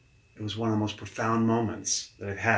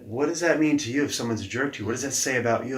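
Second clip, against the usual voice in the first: quick, raised-pitch probing; pointed boss question; 3 semitones higher, faster than usual. Retold or imitated. Boss repeating his question to a stunned coach, probing. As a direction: imitate a boss pressing a question home.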